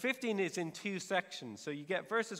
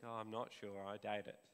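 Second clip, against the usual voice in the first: inner doubt; 7 semitones lower, 10 dB quieter than usual. Retold or imitated. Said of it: "but you think".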